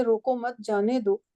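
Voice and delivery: "रोको मत", a break, then "जाने दो"; group "रोको मत" together, then "जाने दो"; pause after मत. Shown as a demonstration. Teacher showing how a pause changes meaning, pause after "मत". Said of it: "तो इसको मैं दो तरीके से".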